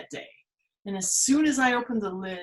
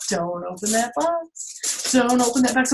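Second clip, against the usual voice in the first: Zeus warning. Acted. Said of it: "like Zeus said".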